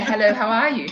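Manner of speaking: lightly posh Australian hello; a touch of refined Queen's English; polite Queen's English. Shown as a demonstration. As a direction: greet in educated Queen's English. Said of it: "I say".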